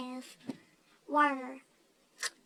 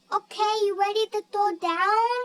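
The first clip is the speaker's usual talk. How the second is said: mock challenge; 3 semitones higher, 6 dB louder than usual. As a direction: dare them to fight, hammed-up. Hobo lady challenges them.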